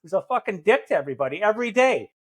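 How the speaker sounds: mildly imitated jerk lecture; pointed mock berating, lightly obnoxious; dickhead way. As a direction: needle them like a scolding dickhead. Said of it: "say in a dickhead way".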